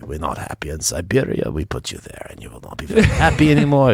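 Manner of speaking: hammed-up Russian accent, rising at the end; a mock-stern Russian threat about Siberia. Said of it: "From the Russian speaker".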